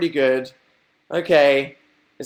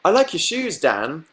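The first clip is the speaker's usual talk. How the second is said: Jade's compliment; 3 semitones higher than usual. Retold or imitated. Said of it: "Jade looks at me and goes".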